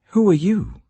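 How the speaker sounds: sudden high, loud startled cry; jolted awake, blurt it out. Acted. Boaz waking startled to a woman at his feet, crying out.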